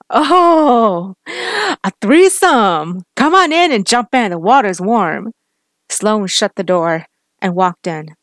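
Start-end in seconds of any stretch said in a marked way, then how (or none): 0.1-5.3 high, slow, jeering villain voice; mocking taunt. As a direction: drawl out the sick joke to taunt them. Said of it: "Gary laughed".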